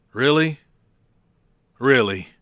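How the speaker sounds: a lightly voiced The Miz. Podcaster repeating The Miz's catchphrase, hammed up. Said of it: "Now I'm gonna sound like The Miz".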